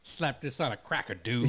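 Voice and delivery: put-on light Cajun-accented catchphrase; imitated Cajun accent. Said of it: "has a thick Cajun accent".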